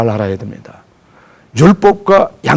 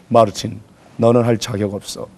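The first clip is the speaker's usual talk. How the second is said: tempting whisper; 5 semitones lower, 7 dB quieter than usual. Acted. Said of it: "속삭이는 정체가 있었어요".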